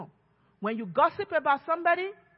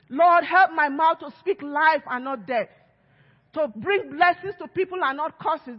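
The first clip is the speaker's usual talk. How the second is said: louder, pleading cry to the Lord; earnest prayer raised up; fervent prayer; 4 dB louder than usual. Retold or imitated. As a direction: call out to God with urgency. Praying aloud for help.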